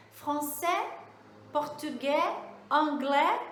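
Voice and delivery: final "ais" said as an open è in Français, português, anglais; lifted teacher demo, "anglais" ending on open è with a silent s. Shown as a demonstration. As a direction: say each word ending in a clear open è. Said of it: "vai ter um sonzinho de E".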